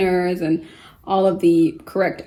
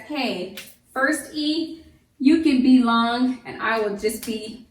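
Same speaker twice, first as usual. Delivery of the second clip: silent E voice; 3 semitones higher than usual. Acted. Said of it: "The silent E says".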